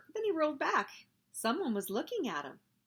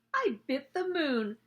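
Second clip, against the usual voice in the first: higher-pitched boastful call; storybook shout; 5 semitones higher, 4 dB louder than usual. A narrator's reading. Bill shows his bitten cookie, mild high shout. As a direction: call it out like a proud kid. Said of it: "shouted Bill".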